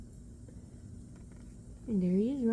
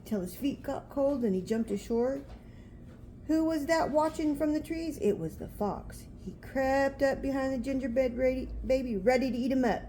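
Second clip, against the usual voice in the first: storybook reading; 3 semitones higher than usual. A narrator's reading. Reading picture book aloud.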